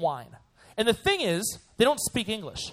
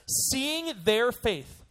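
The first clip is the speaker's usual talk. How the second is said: "their" drawn out and weighted; slow the phrase right down, land on "their"; stress on THEIR; 3 semitones higher, much slower than usual. Shown as a demonstration. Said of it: "so important".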